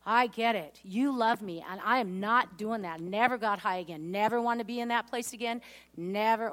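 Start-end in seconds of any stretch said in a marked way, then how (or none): 0.0-3.0 louder, firm inner vow; decide it once and for all; a determined declaration, full of conviction; resolute realization. Retold or imitated. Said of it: "I thought".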